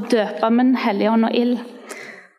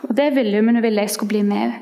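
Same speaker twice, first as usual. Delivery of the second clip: usual speaking voice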